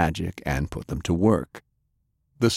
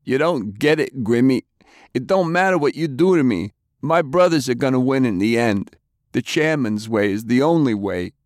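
high voice, a touch of crying; acted tearful defiance; 6 semitones higher than usual. A narrator's reading. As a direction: plead your faith through mild mock tears. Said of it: "Albert started to cry".

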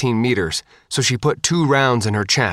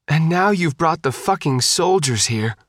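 a mild, higher-pitched jab of disgust; lightly voiced disgust at the soldiers; 7 semitones higher than usual. A narrator's reading. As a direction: spit it out with light contempt. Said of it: "Christine said disgustedly".

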